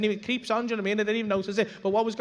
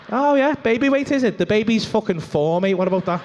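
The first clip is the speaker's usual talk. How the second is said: mock angry rant; 6 dB louder than usual. Imagined rant at girlfriend.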